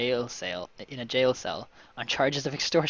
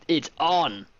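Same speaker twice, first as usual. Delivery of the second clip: loud, higher burst of relish; excited; 4 semitones higher, 6 dB louder than usual. Real, not acted. Player eggs on the scuffle, excited. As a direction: cheer on the coming fight. Reader relishes the coming fight.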